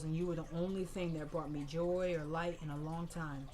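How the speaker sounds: imitating a grandmother's soft goodbye; tender grief. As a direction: speak gently to the dead grandson. Grandmother grieving over casket.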